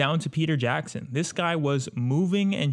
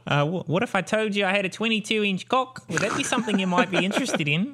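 sleazy pitch; 8 semitones higher than usual. Pretend.

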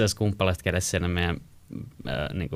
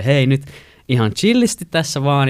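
louder, higher de-escalating; calming down; 6 semitones higher, 6 dB louder than usual. Retold or imitated. Speaker stepping between girlfriend and neighbour, calming. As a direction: step in between to cool things. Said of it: "mä joudun alle siinä välissä".

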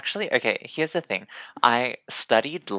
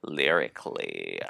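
reviewer buzzwords; 3 semitones lower than usual. Pretend. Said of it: "YouTube music reviewers".

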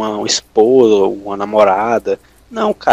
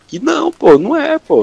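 emphatic; 14 semitones higher, 5 dB louder than usual. Real, not acted. Emphatic denial in heated talk.

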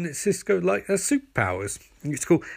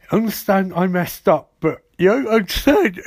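higher, hammed-up apology; mock pleading; 4 semitones higher, 4 dB louder than usual. Barry admits to Iris he messed up, mock pleading. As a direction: plead it, rising in pitch and volume.

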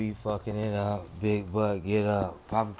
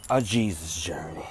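whispered; 4 semitones lower than usual. Acted. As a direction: hush it to a whisper. Whispered aside.

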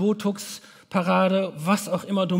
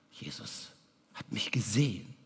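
awed whisper; 6 semitones lower, 11 dB quieter than usual. Retold or imitated. Zachäus holds his breath.

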